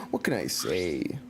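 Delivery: whispered aside; whispered mock humble. Real, not acted. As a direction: breathe it out as an aside.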